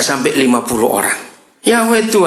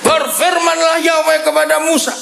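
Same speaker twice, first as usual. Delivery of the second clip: much higher, commanding reading of God's words; preacher reading God's command to Moses, high and commanding; dramatic scripture reading; 4 semitones higher than usual. Acted. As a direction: proclaim it like God ordering Moses down.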